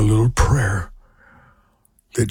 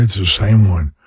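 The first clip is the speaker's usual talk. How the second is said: normal talking voice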